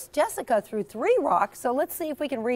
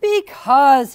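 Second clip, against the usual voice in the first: sighed; 2 semitones higher, 10 dB louder than usual. Acted. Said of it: "he sighed".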